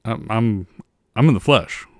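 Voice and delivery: a hint of a famous singer; impression of a singer. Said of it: "So this is Elvis".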